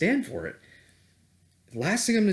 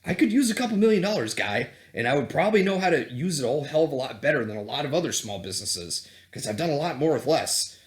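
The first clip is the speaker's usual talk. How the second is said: indignant rant; faster than usual. Retold or imitated. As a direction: rattle off the grievance, fed up. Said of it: "I'm like".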